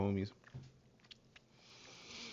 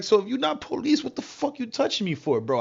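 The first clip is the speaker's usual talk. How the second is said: mock heated shout, reliving the confrontation; retold aggressive yell; 10 semitones higher than usual. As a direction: demand an answer, getting aggressive. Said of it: "I'm like".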